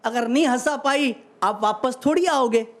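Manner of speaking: measured stage recital of humorous verse; phrase by phrase to an audience; comic poem recitation. Acted. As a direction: declaim it like a hasya kavi.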